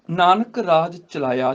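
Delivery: slow, unbroken ਨਾਨਕ ਰਾਜ ਚਲਾਇਆ; pause after ਚਲਾਇਆ. Shown as a demonstration. Teacher showing where to rest, slow line halting after ਚਲਾਇਆ. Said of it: "ਚਲਾਇਆ ਤੇ ਰੁਕਣਾ ਹੈ".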